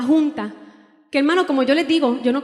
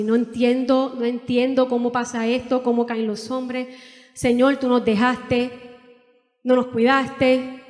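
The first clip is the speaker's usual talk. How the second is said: retold tearful prayer.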